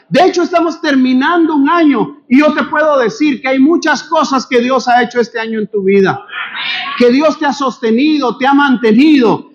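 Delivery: impassioned sermon, rising to shouts; preaching. Acted. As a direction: preach it hard to the congregation. Preacher exhorting the congregation. (predicando con fervor, a gritos)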